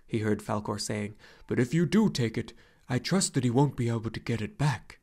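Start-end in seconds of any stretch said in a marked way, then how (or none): 1.4-5.0 a gentle dragon leaning close to reassure; lightly voiced luck dragon. Falkor the luck dragon speaks.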